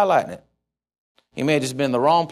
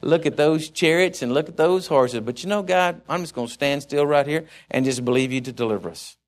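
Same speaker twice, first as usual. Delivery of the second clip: quiet prayer; 3 semitones lower than usual. Acted. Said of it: "call out upon God and say".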